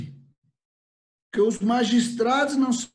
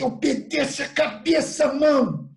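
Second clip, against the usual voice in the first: mock order, drawn out and raised; scolding one's hand; 3 semitones higher, 3 dB louder, slower than usual. Preacher jokingly ordering his own hand to obey, mock scolding. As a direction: order your own hand about, stretching the words. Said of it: "falar assim".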